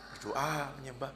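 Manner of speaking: a teasing, mocking "Berdoa, menyembah." with no cheer in it. Answering the pastor's question with a mocking tone. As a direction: say "Berdoa, menyembah." as a taunt, not as encouragement. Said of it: "Ngeledek gitu loh".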